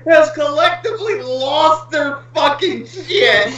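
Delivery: can barely get it out for laughing; excited laughing. Real, not acted. Excited retelling while laughing.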